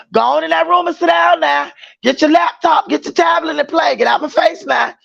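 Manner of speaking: half-playful fed-up mom ordering them out; an exasperated mom sending her kids to their room; mock mother scolding.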